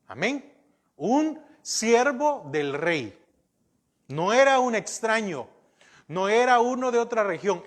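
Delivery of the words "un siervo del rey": drawn-out "Un siervo del rey", weight on each word; slow down and lean on "Un siervo del rey"; slow stressed repeat. Shown as a demonstration. Preacher hammering the point home to his congregation, slowly. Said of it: "Este era un siervo del rey".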